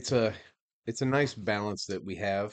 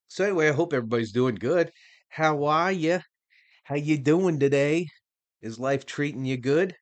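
excited greeting; 6 semitones higher, 7 dB louder than usual. Real, not acted. Cheerful greeting to listeners.

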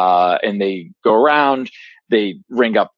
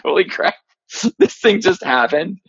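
high, thrilled blurt of disbelief; giddy amazement; 10 semitones higher than usual. Retold or imitated. Fan reliving the lightsaber lighting, high excited disbelief. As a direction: squeal it like a kid seeing magic.

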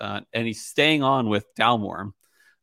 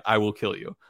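deadpan mock threat; imitated deadpan warning; Richard Patterson. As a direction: say the threat dead straight, in an even voice. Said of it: "like, deadpan".

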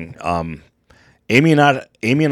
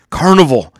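ad announcer; 11 semitones higher, 7 dB louder than usual. Retold or imitated. Mimicking a cruise advertisement.

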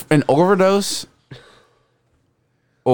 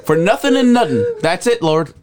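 mock wail; slower than usual. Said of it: "I'm like".

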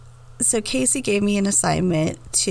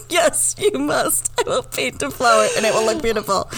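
imitated insistent employee; 2 semitones higher than usual. Repeating the salon employee's demand for laughs, mock insistence. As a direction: play a pushy manicurist, stretching the first words. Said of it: "She responded".

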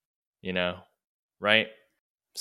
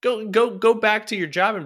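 mock advice; 12 semitones higher than usual. Mocking the salesman.

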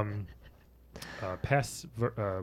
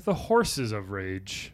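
horror trailer voice; 3 semitones lower, much slower than usual. Acted. Trailer-style title reading.

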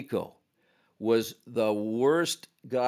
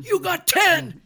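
high, louder mock shout; referee's call; 6 dB louder, slower than usual. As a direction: call the penalty out loud. Ref hands out a misconduct.

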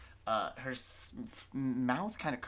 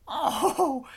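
very high, loud "oh" of delight; cooing witch; 12 dB louder than usual. Acted. Witch delighted by echo's little jig, high coo. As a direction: squeal as if at a puppy.

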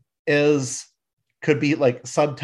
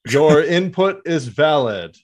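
hammed-up official acknowledgement; mock-validating Optimus Prime; 3 semitones higher, 4 dB louder than usual. Leader to an ignored advisor, mock validation. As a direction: placate formally without meaning it. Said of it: "Optimus just straight up disre".

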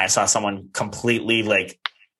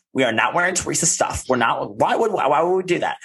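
higher-pitched retold indignant refusal; mock the protest, pitched up; 5 semitones higher, faster than usual. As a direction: voice climbing in imitated disbelief. Retelling cast member's protest to group.

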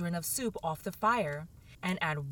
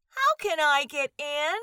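higher, louder question; 6 semitones higher, 4 dB louder than usual. A narrator's reading. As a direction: raise the voice to ask. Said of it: "asked Alice in a louder tone".

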